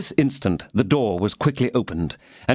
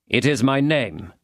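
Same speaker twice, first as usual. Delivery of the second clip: calm; 3 semitones higher than usual. Acted. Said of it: "calmly replied Athos".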